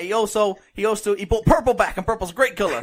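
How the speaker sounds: mock Southern accent, amused; comic Southern American debater. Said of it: "in a Southern American accent".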